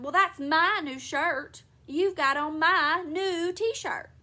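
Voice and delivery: slow, loud, emphatic complaint; indignant quarrelling. A narrator's reading. Husband accusing wife over t-shirt, loud indignation. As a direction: drag out the accusation loudly.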